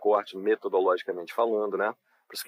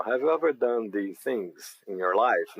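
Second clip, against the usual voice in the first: slow reading aloud; much slower than usual. Shown as a demonstration. Teacher reading a model question slowly. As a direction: read the question slowly and clearly. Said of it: "teacher reads prompt slowly".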